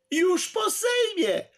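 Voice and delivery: high, slow cutting-in line; sharp interruption. A narrator's reading. Filip cuts in on the host, high and sharp. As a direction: cut him off with the news. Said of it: "przerwał mu pan Filip".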